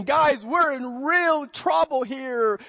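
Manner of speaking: worried warning. Retold or imitated. Retelling worried disciple Matthew.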